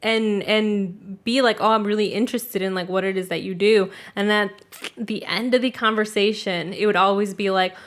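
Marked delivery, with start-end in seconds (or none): 1.6-3.9 mock sweet talk. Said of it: "they would really sweet talk me".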